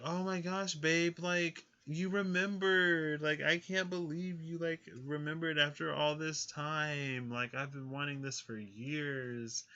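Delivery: high gushing thankful lover; gushing partner. Pretend. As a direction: gush like a touched partner. Acted grateful partner in scenario.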